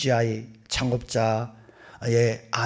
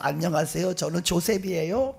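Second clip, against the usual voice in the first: lightly voiced friendly child, a little higher; cheerful greeting; 4 semitones higher than usual. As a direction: imitate a smiling hello. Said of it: "밝게 웃으면서 인사를".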